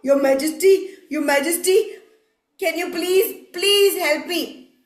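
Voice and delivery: polite rising appeal, last plea drawn out; mild, beseeching crow; pleading. Acted. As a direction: beg a ruler for help. Crow begs the king for help.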